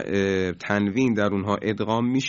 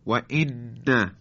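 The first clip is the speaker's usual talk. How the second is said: و ان said very slowly, pinched and stuffy; like a person with a cold; blocked nose; much slower than usual. Shown as a demonstration. Teacher pinching his nose to show failed ghunna.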